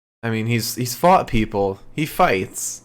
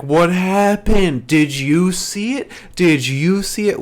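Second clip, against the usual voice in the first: mock bad acting; 7 semitones higher, 4 dB louder than usual. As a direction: ham it up like poor acting. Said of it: "poorly acted questioning".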